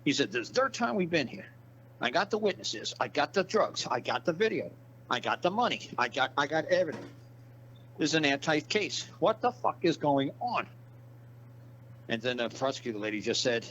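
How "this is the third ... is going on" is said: imitated angry cop. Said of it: "That cop got so mad".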